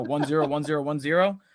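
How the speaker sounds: lightly imitated robot monotone; a hint of a robotic voice. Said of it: "he just talks like a robot".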